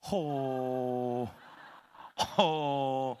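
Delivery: long, low huff of disbelief; disbelieving exhale. Acted. Gamer whose plug was pulled, stunned huff. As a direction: breathe out a slow, low "huh".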